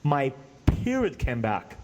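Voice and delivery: slow, said with a laugh; laughing through news. Retold or imitated. Wife's joyful news.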